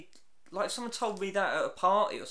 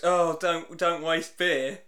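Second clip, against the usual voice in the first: slow mate's quote; 6 dB louder, much slower than usual. Retold or imitated. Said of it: "one of her mates goes".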